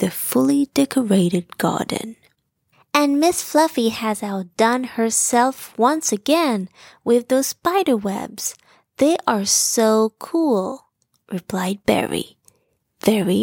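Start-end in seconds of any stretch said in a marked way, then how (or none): 2.9-10.9 put-on impressed young bear. Bo admiring neighbor's decorations.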